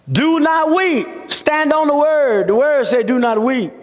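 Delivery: scripture proclamation. Acted. Preacher proclaims the scripture as command.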